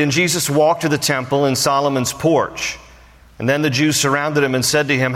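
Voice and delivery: measured Bible reading voice; scripture reading. Acted. Pastor reading scripture to the congregation, measured. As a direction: read the passage to the congregation.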